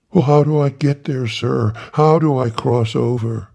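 high, breathless eager greeting; high fawning reverend; Tiny Tillman voice. Acted. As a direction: pitch it up, eager to please. Tiny asking the way.

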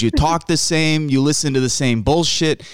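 light Chicago Italian mock rant; dad's Chicago Italian. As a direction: grumble like a Chicago Italian father. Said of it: "very deep Chicago Italian broken English".

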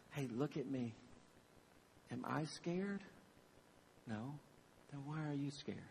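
soft, low-key reassuring parent; calm parental reassurance. Retold or imitated. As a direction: quietly settle a frightened child. Parent calming scared kids.

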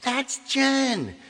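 high, slow, rising into loud disbelief; shocked realisation. Retold or imitated. Singer on the plane realising who the fan was, stunned. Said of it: "and I went like".

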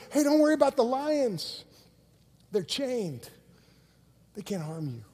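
calm a frightened traveler, easing down; gentle reassurance. Acted. Guide reassures frightened Christian, acted.

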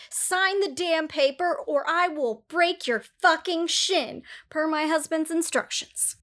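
lightly voiced thug threat; tough girl impression. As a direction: play a tiny tough girl. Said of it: "The tough girl impression".

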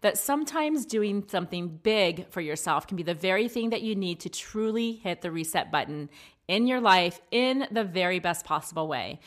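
upbeat sponsor read; podcast ad read. Acted. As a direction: sell the resort warmly.

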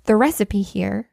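composed, unhurried telling-off; calm. Acted. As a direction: spell out the mistake evenly, pausing often. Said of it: "like, calm about it".

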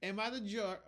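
put-on hamming up a London street accent for a laugh; mock London street accent. Host tries the London accent on the show title, then drops the mock London accent. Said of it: "I'm, I'm gonna stop that".

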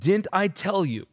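a touch of anger, read out as Jesus; mildly mad. Acted. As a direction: deliver it as a firm rebuke. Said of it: "Jesus is still mad".

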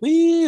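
high, loud squealed "wee"; high-pitched wee. Retold or imitated. Describing the flashy announcement to co-host, high playful wee. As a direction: squeal like a whooshing effect. Imitating flashing lights' sound effect.

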